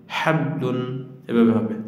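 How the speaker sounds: হাবলুন with only a light bounce on the ব; light qalqala. Shown as a demonstration. Teacher shows students the right way, gently and slowly. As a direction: keep the ব in হাবলুন short and light.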